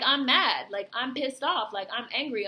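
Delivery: mildly heated imitation of angry residents; acted anger. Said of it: "'cause he's angry, like, he's enraged".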